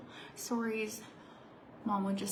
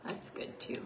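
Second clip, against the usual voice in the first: whispering; 6 dB quieter than usual. Real, not acted.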